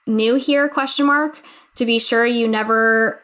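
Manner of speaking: too excited to read the notice straight. Real, not acted. Reading the newsletter to her cohost, bubbling with excitement. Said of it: "my voice said it all".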